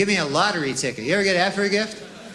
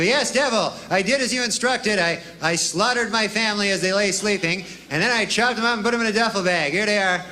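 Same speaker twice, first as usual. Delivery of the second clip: reporting to the devil; 3 semitones higher than usual. Acted. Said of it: "you go".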